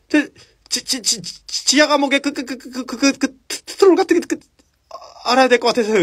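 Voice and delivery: high, stammering, panicky professor; stuttering Quirrell. Retold or imitated. Quirrell stammering a warning about the troll, high. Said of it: "말 더듬는 습관이 있는데".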